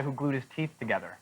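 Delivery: whispered aside. Real, not acted. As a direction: say it under your breath. Aside comment.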